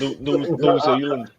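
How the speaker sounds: put-on halting go at a New Zealand accent. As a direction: attempt a Kiwi "New Zealand". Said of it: "That's more like New Zealand accent".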